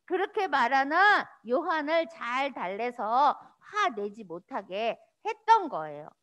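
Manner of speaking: usual speaking voice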